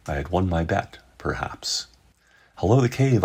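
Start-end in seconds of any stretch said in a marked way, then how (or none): 2.6-3.2 raised voice calling into a cave. A narrator's reading. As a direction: call out loud toward the cave mouth. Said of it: "I called out".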